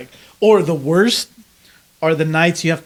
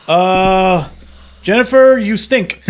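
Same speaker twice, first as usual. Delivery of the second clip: mock roast; 3 semitones higher, 4 dB louder, slower than usual.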